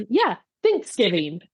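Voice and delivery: slow "Thanksgiving", THANKS stressed; husband's emphasis. Retold or imitated. Husband answering wife's correction, THANKS emphasized. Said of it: "he emphasizes thanks".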